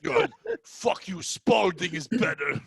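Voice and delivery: movie parody. Acted. Parodying castaway film with accent.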